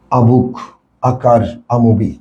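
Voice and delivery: "আ" joined to each noun as "ah"; spaced examples, each opening on "আ"; article pronounced "আ". Shown as a demonstration. Teacher drills examples for students, "আ" said as "ah". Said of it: "এটা করবা কি আ person".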